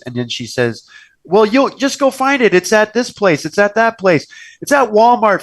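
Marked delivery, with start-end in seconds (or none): 1.2-5.4 higher-pitched, impatient mock mom voice; impatient mother. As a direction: imitate a demanding mom insisting. Demanding mother retold sending daughter shopping.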